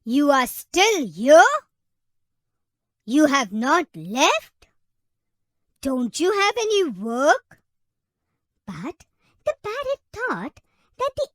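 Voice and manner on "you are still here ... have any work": loud, slowing exasperated yell; elephant screams. Acted. Fed-up elephant yells at the parrot, loud exasperated shout. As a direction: shout it at the pest who won't leave. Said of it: "The elephant screamed and said".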